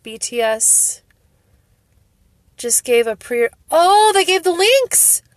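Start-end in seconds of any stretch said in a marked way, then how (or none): 3.7-5.2 loud, high cry of delight; thrilled squeal of discovery; real excited outburst. Real, not acted. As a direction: blurt it out, pitch climbing in sheer excitement. Spots the pre-order links live.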